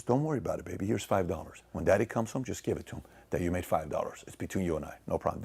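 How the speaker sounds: put-on calm the child quietly, like a mother; soothing mom. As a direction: mom slipping her son money, soft and hushed. Mom comforting son secretly.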